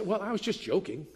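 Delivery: dismissive excuse. Retold or imitated. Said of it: "Maybe it sounds like this".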